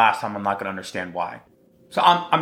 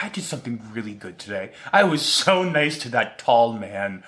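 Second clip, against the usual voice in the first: hushed wife voice. Retold or imitated. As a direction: murmur it like a proud do-gooder. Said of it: "I wonder if she's gonna go home and be like".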